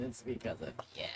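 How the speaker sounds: whisper. Real, not acted. Whispered aside after killing pet.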